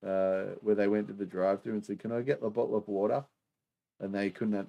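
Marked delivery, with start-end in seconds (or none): 2.0-3.3 quick mock American accent with a hard R on water; hammed-up American tourist asking for water; bad American accent. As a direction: rattle off a terrible American drive-thru order. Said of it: "terrible, terrible, uh, American accent there".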